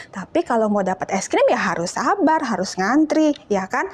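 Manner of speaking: ordinary talk, nothing marked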